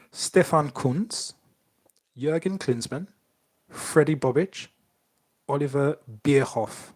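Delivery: put-on names read in a German accent. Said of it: "Good German accent, bro".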